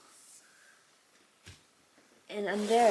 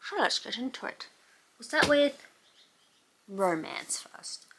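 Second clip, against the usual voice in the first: stuffy blocked nose from a cold; talking through a blocked nose; 3 semitones higher than usual. Real, not acted. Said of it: "I can't breathe through my nose".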